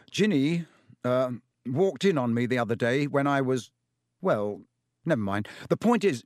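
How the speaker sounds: lightly voiced, embarrassed and hesitant; flustered prefect. Percy squirming as Ron questions him, mildly flustered. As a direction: stumble over it, caught out.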